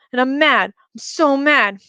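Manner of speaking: put-on a little kid furious in the dark; childish fury. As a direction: let a small child's rage build. Toddler memory raging in crib.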